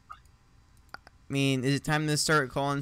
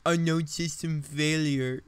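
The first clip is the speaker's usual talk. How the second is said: reading robotic message; 5 semitones higher, 5 dB louder than usual. Retold or imitated. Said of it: "and they're saying".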